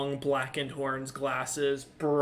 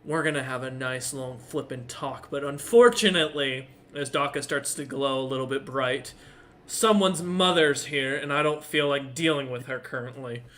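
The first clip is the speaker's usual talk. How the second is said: irritated tiefling; 3 dB louder than usual. Acted. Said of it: "looks back at Bastion and goes".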